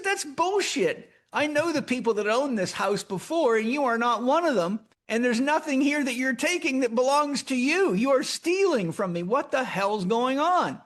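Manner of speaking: angry. Retold or imitated. Arguing with the burglar.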